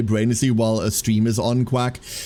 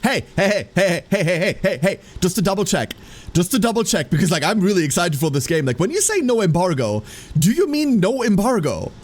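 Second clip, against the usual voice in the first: excited retold message; 4 semitones higher than usual. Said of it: "I messaged them back going".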